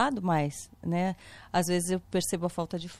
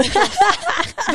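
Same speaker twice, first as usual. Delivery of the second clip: laughing; 10 semitones higher, 8 dB louder, much slower than usual. Real, not acted. Laughing at odd topic change.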